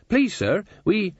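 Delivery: high, hesitant maid's voice; timid plea. A narrator's reading. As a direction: plead meekly with the master, breaking off. Nervous maid pleads with master.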